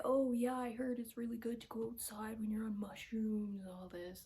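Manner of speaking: a whispered, hushed put-on voice; conspiratorial whisper, lightly acted; mock eager friends. Friends egging each other outside.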